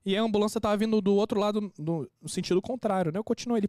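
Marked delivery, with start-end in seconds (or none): none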